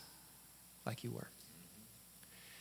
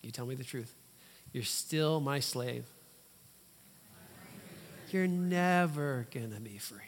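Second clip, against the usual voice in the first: voicing the lie; 3 semitones lower than usual. Shown as a demonstration. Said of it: "I'm gonna tell you the lie".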